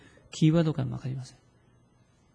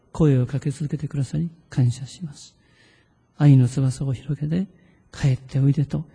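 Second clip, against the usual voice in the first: read-aloud prayer. Shown as a demonstration. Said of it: "声に出して意識して読んでみましょう".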